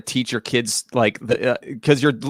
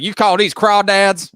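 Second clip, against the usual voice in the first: sassy challenge; 6 semitones higher, 4 dB louder, slower than usual. Retold or imitated. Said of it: "just be like".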